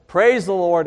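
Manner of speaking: loud yell. Retold or imitated. Rider yelling to make the horse gallop, loud. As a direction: shout it to start the horse. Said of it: "he yells out in a loud voice".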